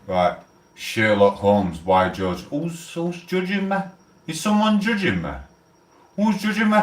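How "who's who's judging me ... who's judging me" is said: mock offended. Mock offended, rising pitch.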